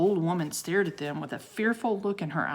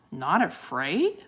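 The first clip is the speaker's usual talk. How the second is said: slow, lightly voiced feeble old woman; a hint of a frail old voice; slower than usual. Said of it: "said a feeble, feeble voice".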